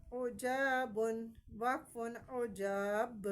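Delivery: عجاب with the final ب bounced out; qalqala on ba. Shown as a demonstration. Teacher demonstrating qalqala for pupils, slowly. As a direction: let the ب in عجاب echo on the stop. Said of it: "ب، یہ sound آئے گی".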